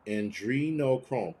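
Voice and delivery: Andrenochrome drawn out slowly with an "ee" in the second syllable; sounded-out pronunciation. Shown as a demonstration. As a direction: say Andrenochrome as an-DREE-no-chrome, slowly. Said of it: "Someone said it the other way".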